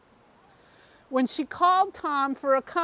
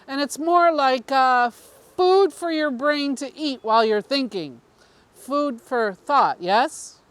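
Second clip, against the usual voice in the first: louder, earnest voice for the councilman, slowing on key lines; confiding councilman, louder; 3 dB louder than usual. Acted. Councilman telling the reporter his secret origin, louder and earnest. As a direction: lean in and press the strange confession home.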